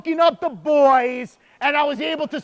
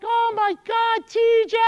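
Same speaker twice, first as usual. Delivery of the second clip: put-on sweet older lady; 11 semitones higher than usual. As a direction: gush like a delighted older lady. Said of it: "This sweet older lady".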